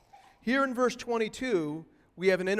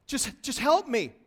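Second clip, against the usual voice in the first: imitated plea, voice pitched higher; pleading; 6 semitones higher than usual. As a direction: plead simply for help. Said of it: "she's pleading for grace".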